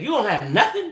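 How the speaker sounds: imitating his too-casual question; casual familiar questioning. Caller mimics the fake customer service man, casual questioning. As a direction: toss it out like chatting with friends. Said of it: "That's the way he said it, like I'm talking to y'all".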